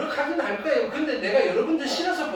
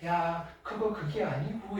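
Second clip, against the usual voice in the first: soft, slow, easygoing correction with a smile; gentle laughing correction; 4 semitones lower, 8 dB quieter, slower than usual. Retold or imitated. Teacher smiling at a student's wrong answer, soft and slow. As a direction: let the mistake slide kindly, smiling. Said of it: "내가 웃으면서".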